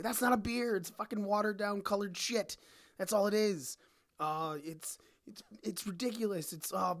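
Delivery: fed-up bartender venting; ranting. Real, not acted. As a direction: vent at the customers. Rant continues.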